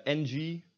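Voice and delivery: "ng" as one hummed sound at the back. Shown as a demonstration. Teacher isolating a Dutch combination, NG sound. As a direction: hum "ng" without a hard G. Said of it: "is just pronounced as ng".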